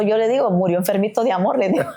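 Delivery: chuckling through a fond memory; laughing. Real, not acted. Widow joking about her husband, laughing gently.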